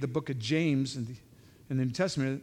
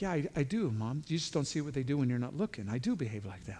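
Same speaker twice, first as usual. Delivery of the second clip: sulky muttered reply; 5 dB quieter than usual. Retold or imitated. Sulky kid answering mom.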